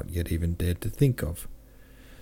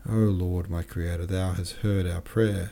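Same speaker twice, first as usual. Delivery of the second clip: tremulous voice. Acted. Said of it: "said he in a tremulous voice".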